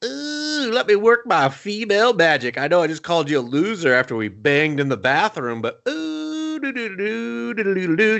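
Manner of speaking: mock Shelby working her female magic on him; mock seductive woman. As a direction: vamp it up like a temptress humming. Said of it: "she's just like".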